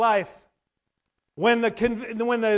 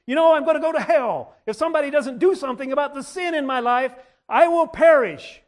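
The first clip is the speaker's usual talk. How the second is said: rising panic; 4 semitones higher, 4 dB louder than usual. Retold or imitated. Convicted sinner realizing his fate, building to a loud cry. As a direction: climb from worry to desperate alarm.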